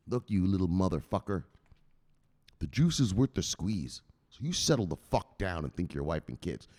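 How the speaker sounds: low menacing lecture; stern enforcer. Acted. Enforcer setting the victim straight, low and stern.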